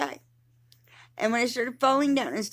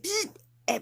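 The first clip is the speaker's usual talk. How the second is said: imitated buzz; 9 semitones higher than usual. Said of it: "And it's just like".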